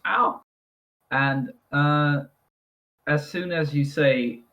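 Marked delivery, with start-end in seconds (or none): 0.1-0.4 short high "ow"; mock pained yelp. Game master voices the punched soldier, high short yelp. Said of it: "He just goes".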